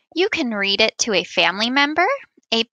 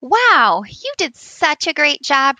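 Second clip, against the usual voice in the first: excited praise; 4 semitones higher, 4 dB louder than usual. Real, not acted. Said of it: "praising the students".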